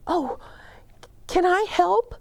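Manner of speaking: high, bright eager question; eager child. Acted. Boy begging Bear to let him help, high eager voice. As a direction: ask like a thrilled little boy.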